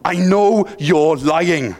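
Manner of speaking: slow mock shout with a thick Welsh accent. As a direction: lean into the Welsh accent, a stern headmaster's yell, lightly done. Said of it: "your Welsh accent comes out more".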